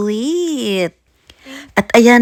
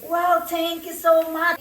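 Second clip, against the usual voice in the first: feigned surprise; 9 semitones higher, 8 dB quieter, slower than usual. Pretend. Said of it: "Kunwari, hindi ko alam".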